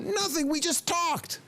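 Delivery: high, drawn-out exasperated wail; upset. Acted. Upset man protesting to his counselor, exasperated. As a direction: stretch out the protest at high pitch. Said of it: "he's all upset".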